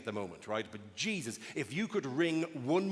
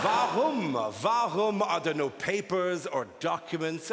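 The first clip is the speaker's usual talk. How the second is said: questioning grandmother; 4 semitones higher, 5 dB louder, slower than usual. Retold or imitated. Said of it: "saying this to my grandmother".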